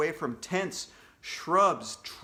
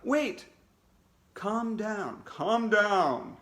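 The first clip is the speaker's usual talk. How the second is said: higher voice soothing the class; bear calming kids; 5 semitones higher, much slower than usual. Acted. Costumed bear calming the class, lightly voiced. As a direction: settle the panicked kids.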